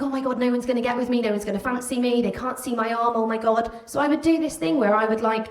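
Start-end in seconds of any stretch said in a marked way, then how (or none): 0.0-3.7 fast, higher run of worried thoughts; mildly panicked, tumbling phrases; teenage panic. Retold or imitated. Teenage girl fretting to herself about boys seeing her arm, mild panic.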